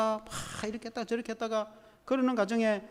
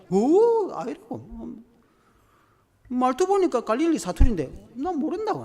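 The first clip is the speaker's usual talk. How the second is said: higher, louder panicked denial; Peter denying; 6 semitones higher, 5 dB louder than usual. Acted. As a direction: deny it in a rush of fear. Peter denies knowing Jesus.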